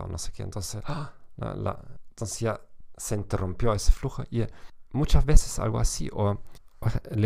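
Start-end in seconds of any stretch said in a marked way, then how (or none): 0.9-1.1 short mock gasp; imitated gasp. Dancer told they have no clothes on, imitated gasp. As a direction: gasp as if suddenly interrupted. Imitates reaction to interrupted flow.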